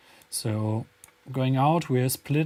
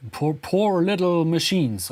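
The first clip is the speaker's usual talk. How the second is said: louder, higher mock monster line; 7 semitones higher, 7 dB louder than usual. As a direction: call it out like a gloating monster. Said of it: "our hit monster Vortex, just saying".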